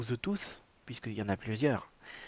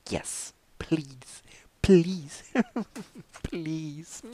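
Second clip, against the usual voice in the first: giggly please; 5 semitones higher, much slower than usual. Pretend.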